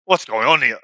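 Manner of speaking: gruff barbarian demanding; lightly voiced brute. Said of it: "Oh, what a barbarian voice".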